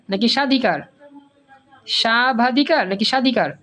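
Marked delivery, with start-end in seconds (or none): 0.3-0.8 সাধিকার with the ব silent, straight from সা to ধি; correct pronunciation. Shown as a demonstration. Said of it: "সাবাধিকার না সাধিকার". 1.9-2.9 সাধিকার with the ব silent, straight from সা to ধি; correct pronunciation. Shown as a demonstration. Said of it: "সাবাধিকার না সাধিকার".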